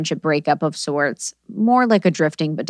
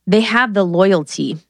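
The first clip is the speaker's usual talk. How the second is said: slowly, LOYALTY set off in air quotes; air-quoted loyalty; slower than usual. Real, not acted. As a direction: draw out the phrase as if quoting it. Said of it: "She just did air quotes".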